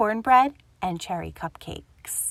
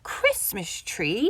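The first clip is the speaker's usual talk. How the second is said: spluttering; slower than usual. Acted. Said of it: "spluttered Grumpy Badger".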